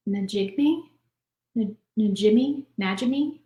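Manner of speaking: tentative tries at "Najimi", restarting after the first N; unsure pronunciation. Real, not acted. Host trying a witch actress's surname from the comments, unsure and questioning. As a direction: feel out "Najimi" haltingly, with a questioning rise at the end. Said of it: "I don't know how to pronounce it".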